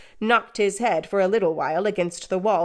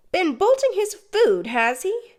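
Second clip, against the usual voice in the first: much higher, louder shrill outcry; cried out; 12 semitones higher, 4 dB louder than usual. Acted. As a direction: cry it out in outrage. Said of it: "cried my sister".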